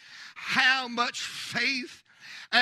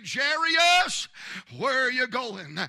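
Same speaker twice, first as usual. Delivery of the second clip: calling out; 4 dB louder than usual. Retold or imitated. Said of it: "I hear somebody say".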